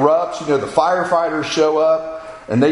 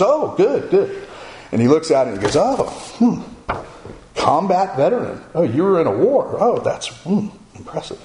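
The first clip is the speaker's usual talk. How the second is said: higher-pitched mock-impressed pastor, lightly voiced; pastor acting impressed; 3 semitones higher than usual. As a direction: play a pastor murmuring "oh" over a resume. Acts out pastor reading his resume.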